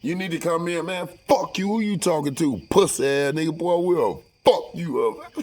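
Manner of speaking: high-pitched mock outrage; hammed-up furious threat; retold angry confrontation. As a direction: act out a heated comeback to a manager. Acted quarrel with the manager.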